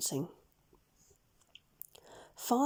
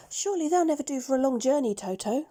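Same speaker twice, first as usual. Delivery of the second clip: Dorothy's voice; 5 semitones higher, faster than usual. Acted. Dorothy fretting to Toto about her worn shoes, quick and higher. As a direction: hurry out a little girl's fretful question. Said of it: "she said".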